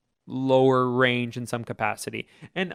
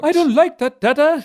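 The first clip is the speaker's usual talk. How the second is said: put-on much higher, louder kid's complaint; child whining at dad; whiny child; 14 semitones higher, 8 dB louder than usual. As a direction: play the fussy child refusing dinner. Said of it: "child reply voiced".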